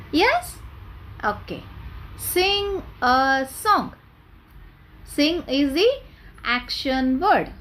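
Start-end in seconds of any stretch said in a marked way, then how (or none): 2.2-3.9 slow, drawn-out, a bit higher; slow model phrase. Shown as a demonstration. Teacher slowly models the phrase for children. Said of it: "repeat with me".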